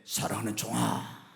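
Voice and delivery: low, soft loving voice of God. Retold or imitated. Pastor voicing God calling his servant, low and tender. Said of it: "하나님의 막 음성이 들려오면".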